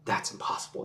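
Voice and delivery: breathy, hushed, mock disbelief. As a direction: say it low and unvoiced, as if stunned. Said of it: "they say".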